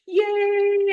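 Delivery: high squeal of joy, loud; excited yay. Retold or imitated. Seeing the dragon roll coming, a loud high delighted squeal. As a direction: squeal it like a kid spotting a treat. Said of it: "I start getting so super excited".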